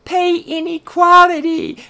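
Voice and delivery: high, childish mock voice rising to a shriek; squeaky little princess mimicry; mocking little girl voice. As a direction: ape a little girl's prim outrage. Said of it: "little eight-year-old girls dressed as princesses saying".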